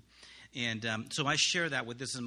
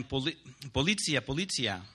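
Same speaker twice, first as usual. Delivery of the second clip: mock yell; 2 semitones higher, 6 dB louder than usual. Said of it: "they started yelling".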